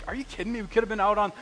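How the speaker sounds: a hint of exasperated anger; mock annoyed rant. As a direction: complain like a fed-up counselor. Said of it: "I was getting mad".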